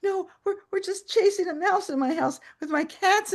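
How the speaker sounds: high, laughing denial; laughing reassurance. Retold or imitated. Patient explaining the mouse chase to her doctor, laughing. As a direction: laugh off the alarm. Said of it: "And I start laughing".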